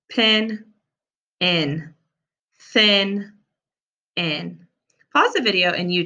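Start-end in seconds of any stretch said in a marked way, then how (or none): 1.4-1.9 "in" said with no P in front; just the "in" part, no P; beginning sound dropped. Shown as a demonstration. Teacher to pupils: "in" without its first sound. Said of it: "drop the beginning sound". 4.2-4.7 "in" said with no TH in front; just the "in" part, no TH; beginning sound dropped. Shown as a demonstration. Teacher to pupils: "in" without its first sound. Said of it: "drop the beginning sound".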